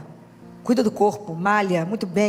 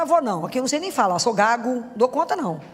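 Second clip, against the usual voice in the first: reluctant Moses; 3 semitones higher than usual. Acted. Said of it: "Moisés falou".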